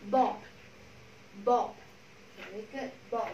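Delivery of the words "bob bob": Bob with a short, cut-off "o". Shown as a demonstration. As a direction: keep the vowel in Bob short. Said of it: "O ngắn".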